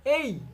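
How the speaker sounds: slow, stretched এই gliding এ to ই; এই said slowly, sliding from এ into ই; drawn-out diphthong demo. Shown as a demonstration. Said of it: "please repeat". (ধীরে টেনে এই, এ থেকে ই-তে গড়িয়ে)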